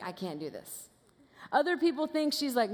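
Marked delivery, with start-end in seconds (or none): 0.0-0.9 much quieter and lower, losing nerve; timid whisper-soft doubt. Pretend. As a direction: shrink away from it, barely getting it out. Esther imagined losing her nerve.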